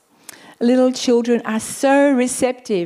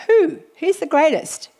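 a preacher's rhetorical cry of who; incredulous question; 7 semitones higher than usual. Real, not acted. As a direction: leap up in mock amazement.

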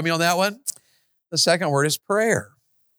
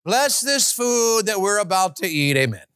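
rattled-off grace; 2 semitones higher than usual. Retold or imitated. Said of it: "just play games even when we pray".

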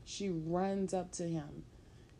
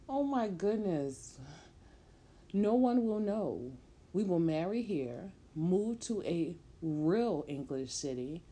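pleading, excited. Acted. Pregnant woman begging her man, eager and raised. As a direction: talk him round before he walks away.

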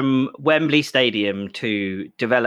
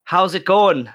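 put-on Irish accent; 5 semitones higher, 3 dB louder, slower than usual. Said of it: "That was my Irish accent".

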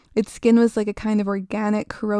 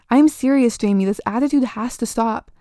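firm, louder warning from mom; stern mother; 4 dB louder than usual. Acted. Mother warning her daughter about her attitude, sternly. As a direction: lay down the law.

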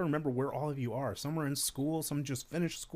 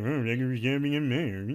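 lightly voiced PA announcer; a hint of intercom announcer; store announcer voice; 4 dB louder than usual. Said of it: "I think I've been in Meijer, like".

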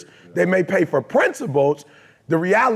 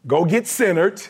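calm inner voice; 3 semitones higher than usual. Retold or imitated. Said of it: "my truth says".

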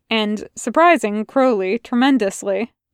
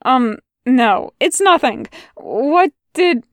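floundering; 3 semitones higher, slower than usual. Acted.

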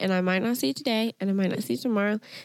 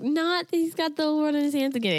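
mock exasperated groan; 7 semitones higher than usual. Groaning about the same song.

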